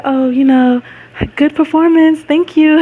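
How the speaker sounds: imitating her calm greeting. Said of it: "That's how I was".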